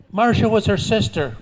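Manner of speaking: put-on high, loud child insisting; little girl voice. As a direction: chirp it like a stubborn little girl. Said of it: "I hand her the microphone".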